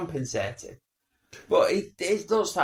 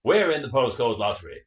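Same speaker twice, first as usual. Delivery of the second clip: advert couple; 3 semitones lower, 4 dB louder than usual. Retold or imitated. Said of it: "And they go".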